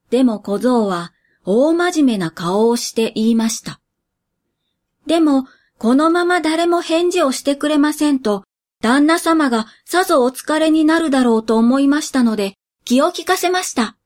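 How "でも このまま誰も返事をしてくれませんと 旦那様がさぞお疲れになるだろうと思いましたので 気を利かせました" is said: put-on higher, quick boy's voice; a young apprentice explaining himself; earnest boy servant.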